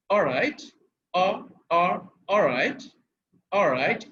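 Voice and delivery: "অলরাইট" with no audible L, rising at the end; silent L, British-style. Shown as a demonstration. Teacher drilling learners, "অলরাইট" with the L inaudible. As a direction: drop the L in "অলরাইট", linking vowel to R. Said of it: "এলটা শোনাই যাবে না".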